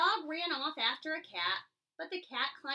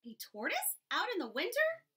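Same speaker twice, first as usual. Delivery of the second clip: higher quacky duck question; quacking duck; 5 semitones higher than usual. Acted. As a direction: ask like a scornful duck. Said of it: "quacked the duck".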